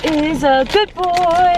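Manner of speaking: slow, high praise for the dog; talking to a dog. Real, not acted.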